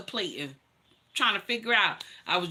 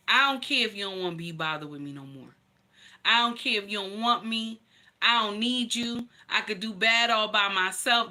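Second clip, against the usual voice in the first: defiant retort. Retold or imitated. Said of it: "I said just like this to him".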